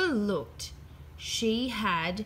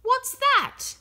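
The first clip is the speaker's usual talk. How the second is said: high, loud curious question; a puzzled little girl asking; 7 dB louder than usual. A narrator's reading. Peppa asks curious.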